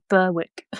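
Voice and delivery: BERWICK sounded out as "BUR-wick", southern accent. Shown as a demonstration. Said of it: "in my southern, um, way".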